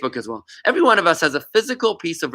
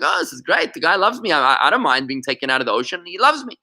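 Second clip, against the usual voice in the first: mock excited fish. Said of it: "And the fish gets excited".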